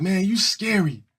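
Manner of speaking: high-pitched kid taunt, mock; teasing the tomboy like an eleven-year-old. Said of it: "we'd be like".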